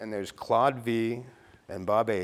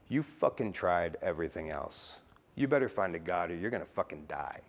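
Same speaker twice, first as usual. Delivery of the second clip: voice in his head; 4 semitones lower than usual. Acted. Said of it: "I hear this voice in my head".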